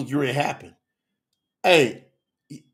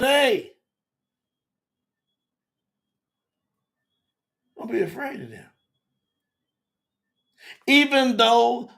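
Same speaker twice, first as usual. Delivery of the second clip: loud, proclaiming God's words from the pulpit; booming divine voice; 3 semitones higher, 5 dB louder than usual. Acted. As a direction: thunder it out as God's own promise. Preacher voicing God's promise.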